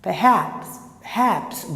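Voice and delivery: "perhaps" with a weak "per", weight on "haps"; stress at the end. Shown as a demonstration. Teacher showing the weak schwa, "perhaps" stressed at the end. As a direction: save the force in "perhaps" for the last syllable. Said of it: "o forte lá pro final".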